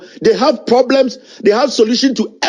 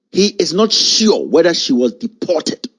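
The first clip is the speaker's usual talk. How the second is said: slow, deliberate quote, lower pitch; emphatic statement; 4 semitones lower, slower than usual. Retold or imitated. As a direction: spell out the president's statement slowly and firmly. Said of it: "This guy made an emphatic statement".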